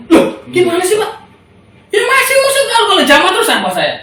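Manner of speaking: indignant retort to the official; retold indignant retort. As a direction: throw the question back at him. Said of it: "saya bilang gitu".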